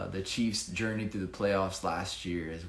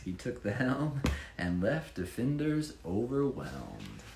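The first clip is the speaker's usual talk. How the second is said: lively rhyming read-aloud; bouncy storybook reading voice; story narration; 3 semitones higher than usual. Acted. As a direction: read it like a picture book for children. Reads rhyming Chiefs picture book.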